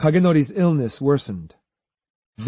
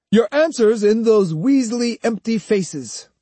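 sneering; 9 semitones higher, 3 dB louder than usual. Acted. Swordsman mocking the silent students' faces, sneering. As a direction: sneer and stretch the final insult. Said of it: "Kojiro sneered".

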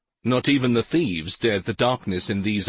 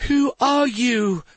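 high, loud, slow scream; terrified shout; 4 dB louder, slower than usual. A narrator's reading. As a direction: shout it in pure terror. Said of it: "Carandin shouted as terror gripped her heart".

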